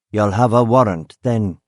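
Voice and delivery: lightly put-on country accent; a hint of rural gamekeeper accent. Gamekeeper challenging a policeman, light country accent. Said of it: "he said in a country accent".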